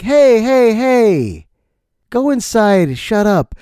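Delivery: hammed-up annoyed shouting down; upset neighbor. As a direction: scold like an irritated neighbor. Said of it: "why is the guy so upset".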